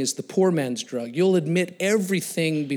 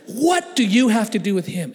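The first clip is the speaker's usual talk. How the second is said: raised, emphatic demand at normal pace; challenging question; 4 semitones higher, 4 dB louder than usual. Retold or imitated. Gang guy's question replayed in his head, emphatic challenge. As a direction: throw it out as a pointed challenge. Same challenge repeated at speed.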